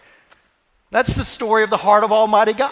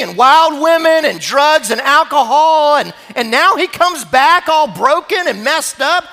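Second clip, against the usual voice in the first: rising, indignant complaint getting louder; resentful elder son; 5 semitones higher, 4 dB louder than usual. Acted. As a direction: let the resentment build to a bitter refusal.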